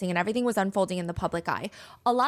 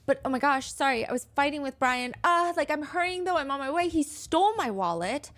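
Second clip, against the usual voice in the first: retold flustered excuse; 4 semitones higher than usual. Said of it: "But Gabby is explaining".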